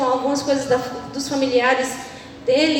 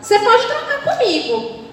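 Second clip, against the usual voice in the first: gentle Jesus; 7 semitones higher than usual. Retold or imitated. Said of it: "Jesus fala assim".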